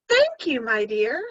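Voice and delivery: weak voice. Acted. Wolf in bed thanking the girl, weak and feeble. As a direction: sound frail and sickly. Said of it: "said the wolf in a weak voice".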